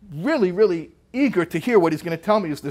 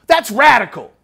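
emotional exclamation; 8 semitones higher, 10 dB louder than usual. Retold or imitated. Sick teacher suddenly exclaiming over a text, excited outburst. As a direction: burst out high and loud, amazed. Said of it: "he said it like that, like, very, like, emotionally".

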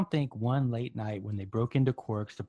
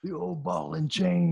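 bro voice; 6 semitones higher, slower than usual. Pretend. Bro cliché, put-on voice.

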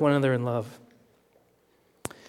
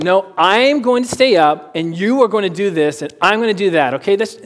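mock bossy insisting; 4 semitones higher, 5 dB louder than usual. Bossy husband he could've been.

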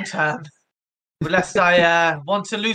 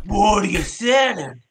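merchant voice; 3 semitones higher, 4 dB louder than usual. Acted. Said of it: "our merchant voice now".

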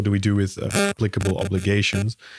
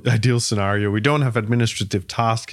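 sarcastic. Real, not acted. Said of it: "you can hear my sarcasm here".

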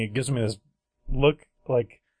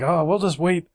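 higher, slow sing-song patience; dad voice; 5 semitones higher, 4 dB louder than usual. Retold or imitated. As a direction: cheerfully settle in to wait. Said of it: "And so he's like".

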